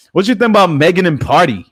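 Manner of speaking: high, loud goofy put-on voice. Asking chat about Megan in a high goofy voice. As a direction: ham it up in a silly voice. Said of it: "my goofy voice".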